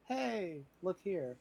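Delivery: lightly flag down your companions; calling for attention. Pretend. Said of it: "signal to the other people".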